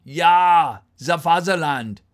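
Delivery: loud, hammed-up German accent; mock German accent. Streamer reading out the time in Deutschland, mock German accent. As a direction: belt it out in a put-on German accent.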